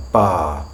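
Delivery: "Bar" with a long open vowel, R silent; British "Bar", ending on the vowel; non-rhotic R. Shown as a demonstration. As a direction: say "Bar" on its own without any R. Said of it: "we don't pronounce that R either".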